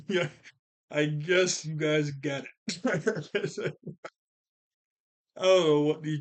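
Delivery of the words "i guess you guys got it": put-on unsure toddler. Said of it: "he's like".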